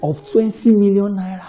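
lightly acted testimony, pitched a little up; testifier. Church member testifying about a money contract, lightly acted. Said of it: "somebody now comes and says".

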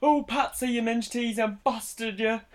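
high, slow caricature of a pop star; Bo Selecta pop singer caricature. Retold or imitated. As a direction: ham up a mock celebrity voice, dragging the last words. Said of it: "Bo Selector, he does that, Mel C".

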